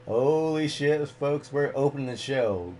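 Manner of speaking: excited exclamation. Acted. Host reacts to show opener.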